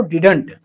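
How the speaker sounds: didn't as one clipped word; didn't as a contraction; short form. Shown as a demonstration. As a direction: say didn't, not did not. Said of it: "क्या बोलो?".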